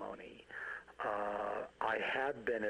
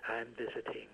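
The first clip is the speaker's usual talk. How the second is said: measured, deliberate prose reading with pauses between images; story narration with falling phrase ends; literary story reading. Acted. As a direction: read it like a poem, phrase by phrase. Reads own story aloud.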